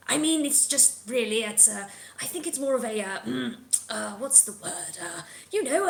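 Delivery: lightly voiced squabblers searching for words; bickering creature voices. Game master voicing three creatures in the background, muddled bickering. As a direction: fumble for a word in character. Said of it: "these three voices kind of".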